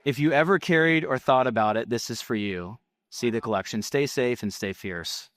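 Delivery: punchy ad copy with falling line endings; ad read. Acted. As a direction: read it as a sales script, pausing between phrases.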